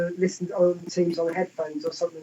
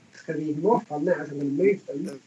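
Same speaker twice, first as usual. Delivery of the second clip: choppy breaking-up audio; cutting out; 3 semitones lower, faster than usual. Real, not acted. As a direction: voice dropping out on a bad line. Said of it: "you keep cutting out".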